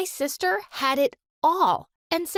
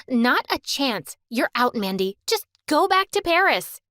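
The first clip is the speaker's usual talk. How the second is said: cold, scornful dismissal; 3 dB louder than usual. Acted. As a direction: send her away with contempt. Anna dismissing Mandy.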